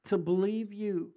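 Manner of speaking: emphatic, rising prayer in phrases; measured, forceful petition to God; real public prayer. Real, not acted. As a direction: pray fervently over a congregation. Leads a prayer over congregation.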